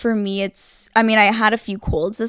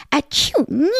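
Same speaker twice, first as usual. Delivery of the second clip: imitated sneeze; 4 semitones higher than usual. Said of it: "she'd go".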